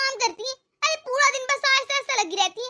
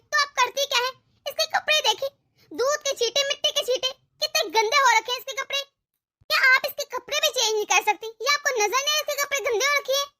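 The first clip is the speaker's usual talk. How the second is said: angry scolding; 3 semitones higher than usual. Acted. Daughter-in-law scolds mother-in-law.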